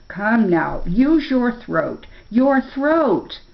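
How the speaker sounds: impatient bear, slow and rising on throat; irritable. Acted. Bear urging the tongue-tied boy, impatient and pushy. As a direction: prod him to speak, your throat.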